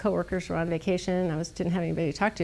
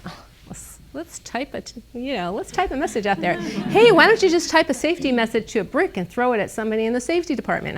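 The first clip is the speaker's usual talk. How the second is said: snarky; 4 semitones higher than usual. Retold or imitated. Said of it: "I was, like, really snarky".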